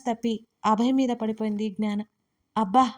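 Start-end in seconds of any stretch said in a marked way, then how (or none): 2.6-2.9 a louder pained cry; mock cry of pain; loud ouch. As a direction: yelp as she lands on him. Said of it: "గట్టిగా అరిచాడు".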